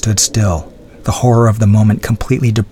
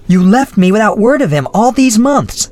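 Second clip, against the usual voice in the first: much higher, reproachful cry; anguished cry; 12 semitones higher than usual. Acted. Adrienne reproaching the Baron, high anguished cry. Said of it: "she cried".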